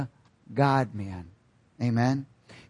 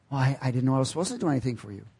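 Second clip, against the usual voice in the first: softer, very fast excuse; sheepish sinner; 3 semitones lower, 5 dB quieter, much faster than usual. Retold or imitated. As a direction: rush the excuse out nervously. Sinner answering God at judgment.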